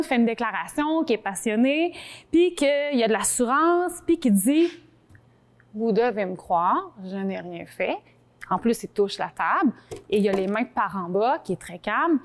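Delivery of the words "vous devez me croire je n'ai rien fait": low, slow and steady; calm sincere. Shown as a demonstration. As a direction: say it calmly, meaning every word. Demo of sincere calm statement.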